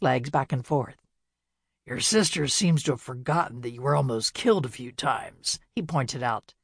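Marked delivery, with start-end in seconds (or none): 1.9-5.6 gentleman ghost. Acted. Ghost Rupert speaks.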